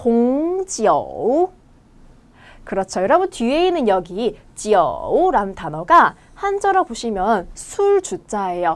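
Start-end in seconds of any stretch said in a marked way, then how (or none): 0.0-1.5 rise-fall-rise pitch on 홍지오. Teaching the chinese word for wine: rise-fall-rise pitch on 홍지오. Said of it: "올렸다가 내려갔다 올라와요".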